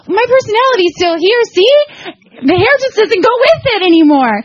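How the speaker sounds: high, choked-up reassurance; tearful comfort. Retold or imitated.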